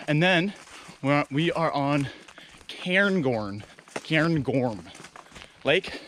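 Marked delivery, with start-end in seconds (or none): 2.7-4.8 Cairngorm sounded out slowly and carefully; trying out the name Cairngorm with care; careful pronunciation. Real, not acted. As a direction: say Cairngorm deliberately, checking each syllable. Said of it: "we're pronouncing that one right".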